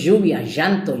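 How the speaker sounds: "lluvia, llanto" with the ll said as y; our pronunciation. Shown as a demonstration. Showing how locals say rain and weeping, ll as y. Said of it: "Nosotros decimos".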